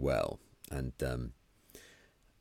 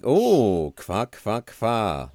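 loud "oh" turning into quacks; duck noise; 4 semitones higher, 7 dB louder, much slower than usual. Retold or imitated. Mother-in-law disguising his swear as a duck, imitated quacking. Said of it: "making a noise, going".

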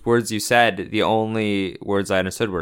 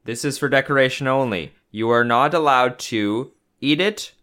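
stern parent; 2 semitones higher than usual. Retold or imitated. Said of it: "is what I'm saying".

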